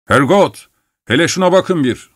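narrated cry of alarm, pitched high; fearful cry. A narrator's reading. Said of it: "Yan'ın korkuyla bağırışı".

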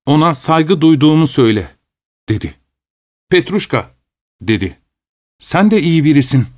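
a hint of a grumbling manservant; Petruşka the servant. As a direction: protest like a sulky servant. Petruşka reports the clerk's words.

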